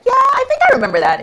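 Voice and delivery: high, loud, forced casual reply; nervous squeak. Retold or imitated. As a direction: squeak it out, hiding the fear. Patient hears bad news coming.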